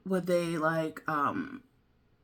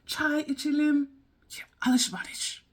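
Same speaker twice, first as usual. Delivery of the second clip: whispered; 6 semitones higher than usual. Shown as a demonstration. Practising Turkish phrases alone, whispered. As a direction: breathe the Turkish words.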